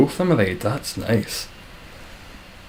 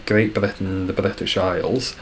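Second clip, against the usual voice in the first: normal talking voice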